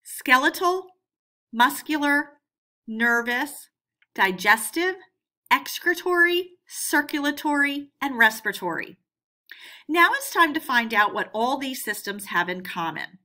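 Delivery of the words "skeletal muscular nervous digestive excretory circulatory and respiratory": louder, each word called out on its own; calling out the list. Shown as a demonstration. Teacher calling out the list for kids to repeat, louder and spaced. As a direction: lead the kids in naming them aloud. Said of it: "Let's see if you can name all seven with me".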